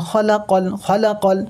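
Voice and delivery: খলাকল with every vowel short; no stretching. Shown as a demonstration. Quran teacher repeating after the rule, no stretching. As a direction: say খলাকল evenly, nothing drawn out. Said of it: "কও টান হবে না".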